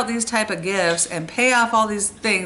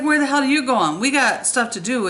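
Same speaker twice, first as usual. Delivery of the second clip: angry demand; 5 semitones higher than usual. Retold or imitated. Angry man blocking their car.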